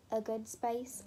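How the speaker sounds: British accent slipping into "space"; accidental British accent. Real, not acted. Crafter emphasising good placement to viewers, in an accidental British accent. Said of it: "That turned into a British accent".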